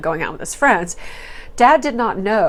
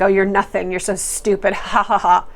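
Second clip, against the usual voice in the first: mocking laugh. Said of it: "she's mocking her".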